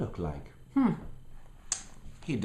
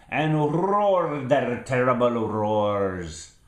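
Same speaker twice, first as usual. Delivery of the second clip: slow and louder, building big; dramatic roar reading; 3 semitones higher, 7 dB louder, slower than usual. A narrator's reading. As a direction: read it like a roar rising.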